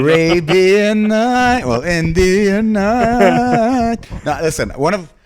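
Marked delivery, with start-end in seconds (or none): 0.0-4.0 movie trailer voice. Pretend. Announcing a movie title jokingly.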